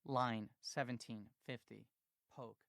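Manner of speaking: slow measured code dictation, fading; reading code aloud. A narrator's reading. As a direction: dictate each line slowly. Reading BASIC code listing.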